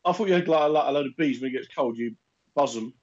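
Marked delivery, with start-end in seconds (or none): 2.0-2.9 buzzing like a bee. Retold or imitated. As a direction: do a little bee buzz. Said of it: "This is my bee impression".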